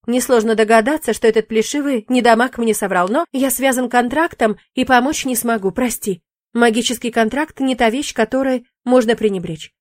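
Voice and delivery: breezy demon shrugging it off; lightly voiced demon. Demon brushing off the witch's fear, lightly voiced.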